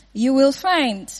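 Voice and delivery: slow, stressing the word find; slow emphatic "You will find"; slow emphatic promise. Shown as a demonstration. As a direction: drive the promise home slowly.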